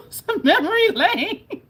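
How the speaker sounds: high, slow laugh through the words; laughing at the painful memory. Real, not acted. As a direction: laugh it out, a bit rueful.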